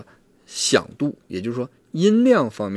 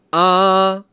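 a much higher, much louder “啊”; 10 semitones higher, 10 dB louder than usual. Shown as a demonstration. Therapist demonstrating the loudest level of a volume test, loud. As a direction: belt the vowel out at full volume. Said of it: "再来一个大声的".

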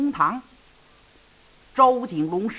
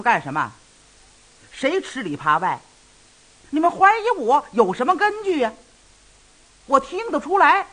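a flustered protest building to a heated cry; agitated; 4 semitones higher than usual. Acted. Lei Ting retells protesting the suspicion, growing agitated. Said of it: "我当时就急了".

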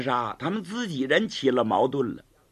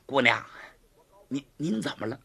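fawning; 4 semitones lower, 4 dB quieter, faster than usual. Acted. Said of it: "马上笑脸相迎".

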